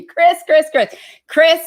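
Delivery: high, loud imitation of being yelled at; mock yelling. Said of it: "he's yelling at me".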